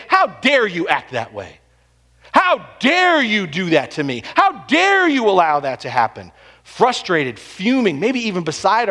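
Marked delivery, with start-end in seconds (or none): 0.1-6.3 mock indignation. Pastor voicing believers' outrage at God, mock indignant. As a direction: play the offended believer, a touch hammed-up. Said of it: "we have no problem saying".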